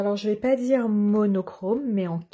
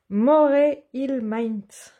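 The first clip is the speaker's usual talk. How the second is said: careful slow reading; 3 semitones higher, much slower than usual. Real, not acted. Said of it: "Je m'excuse pour mon accent".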